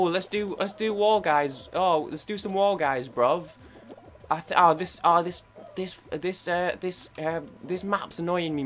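loud, high mock British accent, bruv. Gamer does War Guys in a mock British accent. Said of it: "my accents".

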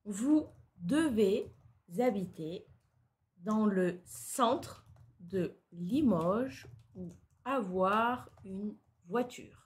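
dictating. Shown as a demonstration. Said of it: "Daha yavaş söyle".

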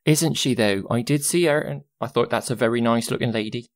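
lightly voiced chatty servant woman; Jazana, admiring. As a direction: gush a little, in character.

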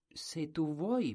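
whispered, slow; timid whisper. Acted. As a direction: breathe it out shyly. Colombin answers the king softly.

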